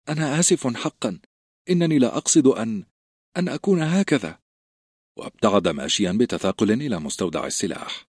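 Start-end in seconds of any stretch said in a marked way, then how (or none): 0.1-4.4 put-on a nervous fat boy, higher, halting; timid stammering boy. A narrator's reading. A frightened boy explaining to the recruits why he didn't fight, halting. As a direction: stumble over the words in shame. Samwell apologising.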